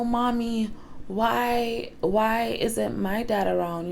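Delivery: a hint of a small boy missing his dad; little son asking. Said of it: "no, not like that".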